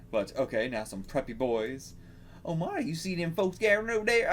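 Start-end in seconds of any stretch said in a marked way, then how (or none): 2.5-4.3 high, put-on country-girl voice; attempted feminine country accent. Preppy kid pointing out folks gathering, feminine country accent. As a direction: try a feminine voice with a country twang. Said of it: "feminine voice with a country accent".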